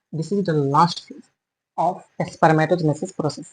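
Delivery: very slow, word-by-word dictation; dictating slowly. Shown as a demonstration. Teacher dictating notes to students, very slow and deliberate. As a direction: spell it out slowly as you write it on the board.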